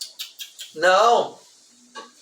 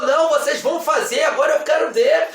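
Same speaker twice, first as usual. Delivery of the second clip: raised, pressing pastor's order; insistent demand; 3 semitones higher, faster than usual. Retold or imitated. Pastor demands proof from the young couple, insistent and pressing. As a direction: insist on it, voice lifted. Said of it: "começou o pastor insistir".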